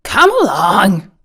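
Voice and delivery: hearty, ringing invitation. A narrator's reading. Scarecrow invites the tin man along, hearty. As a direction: welcome him in heartily. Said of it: "said the Scarecrow heartily".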